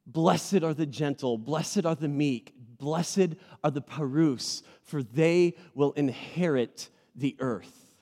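slow solemn reading of blessed are the; scripture recitation. Acted. Pastor slowly reciting the Beatitudes. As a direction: recite it like holy text.

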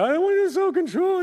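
high-pitched mock whine; exaggerated high, petulant whine; whining. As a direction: whine it way up high like a sulky complainer. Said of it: "we whine about it".

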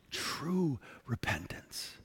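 slow whisper, true stressed; whispered repeat. Shown as a demonstration. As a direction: echo it softly, leaning on True. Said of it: "of true repentance".

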